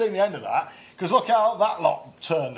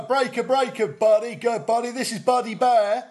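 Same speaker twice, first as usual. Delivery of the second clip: CB radio trucker; 5 semitones higher than usual. Retold or imitated. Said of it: "sounds like a C B radio call handle".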